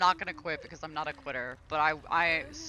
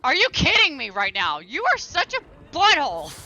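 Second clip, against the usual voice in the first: much louder, higher yell of frustration; loud, furious, pitched-up rant; real angry outburst; 7 semitones higher, 9 dB louder than usual. Real, not acted. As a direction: blow up at the other player. Raging at the killer player.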